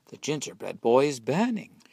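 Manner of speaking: put-on old woman panicking over the oven; alarmed cry. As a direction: sound the alarm about the oven. Old woman discovers burning gingerbread.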